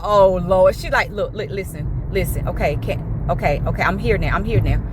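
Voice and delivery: low, hushed calming voice; soothing friend. Retold or imitated. Driver Smooch calms her upset friend, low and hushed. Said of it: "she looking like".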